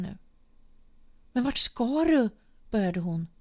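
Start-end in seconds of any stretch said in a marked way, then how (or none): 1.3-2.3 higher and louder, a sudden demanding call; alarmed outcry. A narrator's reading. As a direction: stop him at the door with your voice. Wife confronts leaving partner.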